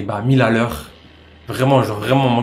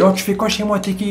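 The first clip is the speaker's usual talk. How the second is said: calling out; 7 semitones higher than usual. Retold or imitated. Confronting intruder in his house.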